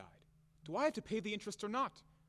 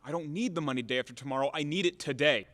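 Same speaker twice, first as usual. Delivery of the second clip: fast, loud, hammering the need; loud demand for money now; insistent anger; 2 semitones lower, 5 dB louder than usual. Acted. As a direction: push back hard and fast. Creditor insists on payment today.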